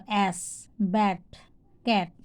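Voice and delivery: অ্যাস, ব্যাট, ক্যাট with an open "ae"; A as short "ae". Shown as a demonstration. Teacher giving examples of A, open "ae" in অ্যাস, ব্যাট, ক্যাট. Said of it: "যখন এ উচ্চারণ হচ্ছে".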